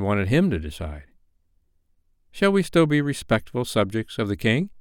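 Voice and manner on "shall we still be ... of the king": inquiring John. Acted. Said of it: "John inquired".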